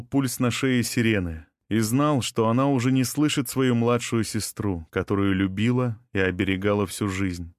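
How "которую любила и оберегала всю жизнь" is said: usual speaking voice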